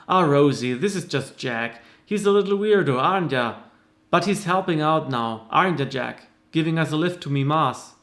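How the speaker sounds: light Irish lilt, teasing; lightly voiced Irish woman teasing a shy man; Irish accent. Hildy teases Jack to Rosie, light Irish accent. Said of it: "unique voice for all the different characters".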